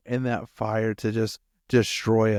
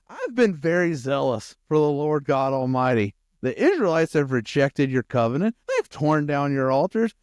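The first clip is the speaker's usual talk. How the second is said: Elijah's self-righteous protest, a little raised; bold indignation; 3 semitones higher, 4 dB louder than usual. Acted. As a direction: plead your record with bold attitude. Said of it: "That's exactly the attitude Elijah had".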